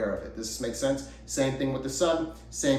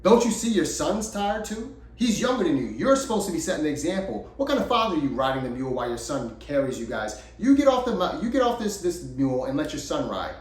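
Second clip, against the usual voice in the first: raised-pitch mock scolding of a father; chastising passerby; 3 semitones higher than usual. Couple on the trail scolds the father, chastising. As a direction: act out an indignant telling-off, higher than usual. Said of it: "they, they chastised the father".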